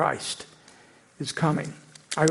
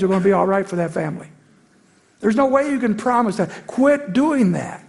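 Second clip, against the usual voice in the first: raised, insistent protest; inner rebuke to commentators; 4 semitones higher than usual. Retold or imitated. Scolding TV commentators, an exasperated raised rebuke. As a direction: tell them off firmly, higher. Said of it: "I think".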